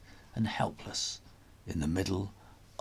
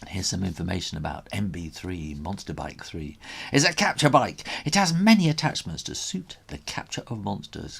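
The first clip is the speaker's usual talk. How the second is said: aside to listener; faster than usual. Real, not acted. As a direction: step out of the story to explain. Aside explaining the bike.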